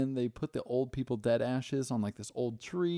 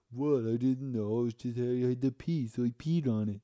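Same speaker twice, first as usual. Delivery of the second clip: louder, mildly hammed-up indignant excuse; mock defensive protest; 2 semitones higher, 5 dB louder than usual. Retelling a guy caught peeing on the ancestor tree, mock defensive protest. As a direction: imitate someone loudly protesting his innocence.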